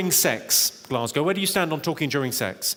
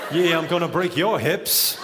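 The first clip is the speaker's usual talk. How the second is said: mock sexy voice; slower than usual. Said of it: "Oh, yeah".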